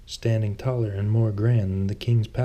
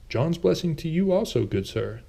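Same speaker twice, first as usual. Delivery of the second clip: merchant; 7 semitones higher than usual. A narrator's reading. Merchant blesses Lucian.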